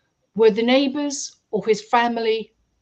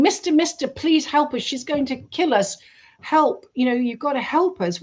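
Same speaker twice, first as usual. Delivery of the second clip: put-on higher, pleading Black Country girl's cry for help; 4 semitones higher than usual. Tied-up girl begs the driver for help, higher pleading. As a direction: beg the stranger to save you, a mild mock plea.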